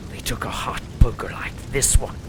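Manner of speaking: sinister whisper, breath only; menacing whisper. Acted. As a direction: hiss it into her ear like a threat. Torturer gloats over prisoner.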